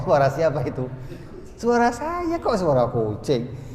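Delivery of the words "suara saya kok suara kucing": high, exaggerated puzzlement; mock disbelief. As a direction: protest in baffled, high-pitched mock surprise. Teacher acts puzzled challenge about meow. (pura-pura bingung dengan suara tinggi)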